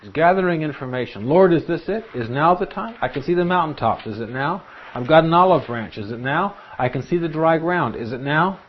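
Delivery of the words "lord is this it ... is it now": high, keen mock-prayer questions; eager questioning. Noah asking the Lord if it is time, eagerly. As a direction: play Noah checking each sign, pitched up. Acting out Noah seeking God's timing.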